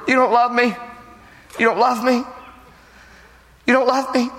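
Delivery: a pleading wife, hammed up; whiny wife. Wife whining at her new husband. Preacher voicing crying wife.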